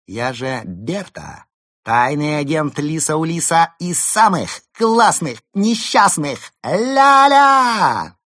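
very high, loud singsong; giddy singsong. Acted. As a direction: sing out the boast. Berta bragging singsong.

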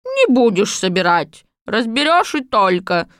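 high, loud gleeful crone; loud old witch. Acted. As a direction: cackle agreement like a witch. Baba Yaga agrees loudly. (громкая довольная старуха)

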